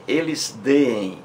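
deem said slowly as two Es, de-em; slow teacher's demo of the hiatus; drawn-out hiatus. Shown as a demonstration. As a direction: stretch deem into two separate vowels.

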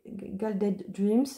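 attempted English accent on the title. Real, not acted. Presenter giving the deck's English title, self-mocked English accent. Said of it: "avec mon super accent".

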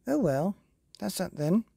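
resigned sigh. Acted. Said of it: "sighed the fairy godmother".

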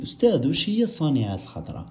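lightly voiced student question, quick; student asking. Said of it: "أنت تقدر تسقسيني". (سؤال تلميذ بخفة وسرعة)

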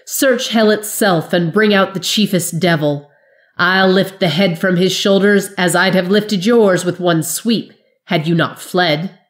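Jory scorning the wizard's threat; hot scorn. Acted. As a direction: laugh the threat off with contempt. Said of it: "Jarrell's laughter was hot with scorn".

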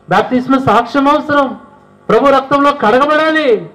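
very high, insistent call to repent; full-force preaching. Acted. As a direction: urge them to be saved, climbing high. (పూర్తి శక్తితో బోధన)

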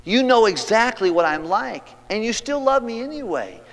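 high, loud, slow-building awe; rapturous psalmist. Acted. Preacher voicing the psalmist in soaring praise. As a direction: pour out wonder at being known and loved. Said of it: "Then he said".

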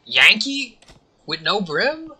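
high, loud disbelieving yelp at Yankee; incredulous. Acted. To the character, incredulous yelp.

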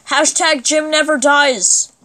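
slogan drawn out for effect; proclaimed slogan. Pretend. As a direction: announce it like a battle cry.

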